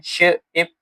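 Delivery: श and इप said as separate sounds with a pause; sounds split apart. Shown as a demonstration. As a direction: break शिप into श and इप. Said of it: "phonemes हमारे पास कितने हैं".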